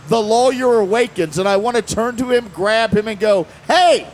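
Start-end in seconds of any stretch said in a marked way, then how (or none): 3.7-4.0 high, drawn-out plea to shut up; slow, pointed warning to stop talking; urgent stage whisper-shout. Pretend. Imagined urging the confessing driver.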